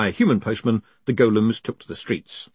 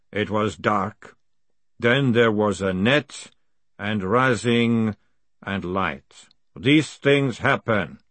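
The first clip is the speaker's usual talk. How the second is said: slow, measured ancient voice; slow golem voice; slower than usual. Acted. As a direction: speak like a patient ancient golem. Golem speaks slowly.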